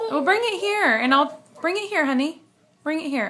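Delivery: high and loud, laughing through words. Real, not acted. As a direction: coax a little one while giggling. Laughing while coaxing her child.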